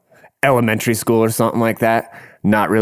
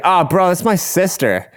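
higher-pitched mock-appalled objection; retold protest; 8 semitones higher than usual. Retold protest to gawking men.

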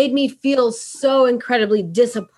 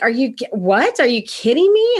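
shocked disbelief; 2 semitones higher than usual. Retold or imitated. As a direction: retell being taken aback, pitch climbing on the question. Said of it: "at first kind of shocked".

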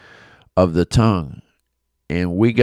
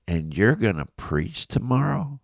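imitating a calm son's higher-pitched question; 4 semitones higher than usual. Son questioning his yelling dad before he preaches, calm. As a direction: calmly put it to him, pitch lifted. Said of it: "he said it in a calm voice like that too".

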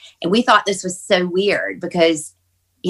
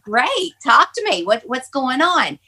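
eager urging; 7 semitones higher than usual. Retold or imitated. Retold eager urging of her father.

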